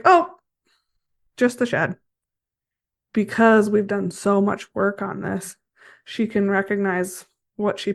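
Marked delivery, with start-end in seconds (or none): 0.0-2.0 a high, loud "Oh" that settles into relief; horse's relieved thought. Retold or imitated. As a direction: voice the mare realising it's only the shed.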